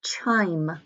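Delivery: word whispered as a model. Shown as a demonstration. Teacher whispering the spelling word to students. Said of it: "And number six".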